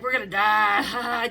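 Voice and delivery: loud, drawn-out mock cry of doom; mock doom wail. Bandmate in the stuck elevator jokes to everyone, loud mock doom wail. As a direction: stretch it out loudly as a joking wail. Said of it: "just laughing".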